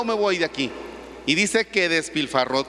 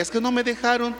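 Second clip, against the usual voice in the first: whiny son; 5 semitones higher than usual. Retold or imitated. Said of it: "son answers father".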